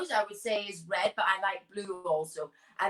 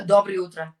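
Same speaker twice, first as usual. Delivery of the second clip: put-on Russian accent; 3 semitones lower, 8 dB louder than usual. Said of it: "say the most Russian thing you can think of in a Russian accent".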